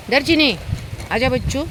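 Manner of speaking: high doting pet call. Real, not acted. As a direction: coax the dog over to come. Calling dog Chini lovingly.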